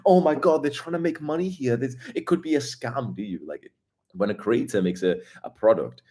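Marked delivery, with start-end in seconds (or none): 0.1-3.2 mocking shopper. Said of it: "be like".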